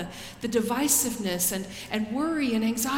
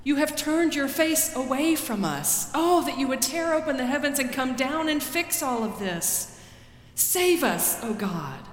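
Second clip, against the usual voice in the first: raised, pleading cry of a grieving people; pleading lament; 4 semitones higher than usual. Acted. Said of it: "they look to God and say".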